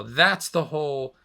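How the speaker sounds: losing his voice, a bit hoarse. Real, not acted. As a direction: voice going hoarse. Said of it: "Oh, I'm losing my voice".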